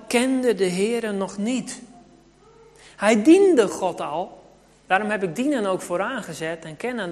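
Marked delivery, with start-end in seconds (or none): 3.0-4.4 slow and louder, leaning hard on "diende"; emphatic slow stress. Acted. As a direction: land "diende" heavily, word by word. Preacher drives home the key point. (nadruk op "diende", langzaam en luid)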